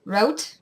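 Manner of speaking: "route" rhymed with out; "route" like rout. Shown as a demonstration. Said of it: "I always pronounced it as root".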